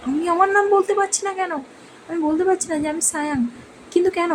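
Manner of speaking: a touch of panic, pleading why; half-acted rising worry; bewildered distress. Boy cannot say his own name.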